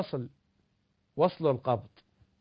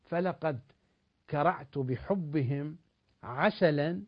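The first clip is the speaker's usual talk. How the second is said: slow, measured verse with emphatic openings; poetry recitation; slower than usual. Acted. Recites verse to close his point. (إلقاء شعري متأنٍّ)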